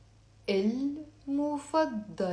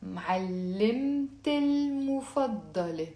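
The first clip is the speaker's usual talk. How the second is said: run together as one word. Shown as a demonstration. Teacher showing the liaison, syllables measured and linked. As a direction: join معلمت المفضلة into one long word. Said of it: "Almost like one word in seven syllables".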